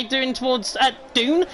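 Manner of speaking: down said as "Dune" in a northern accent; northern vowel, "Dune" with a long oo; northern English accent. Real, not acted. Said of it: "that's my northern accent coming out".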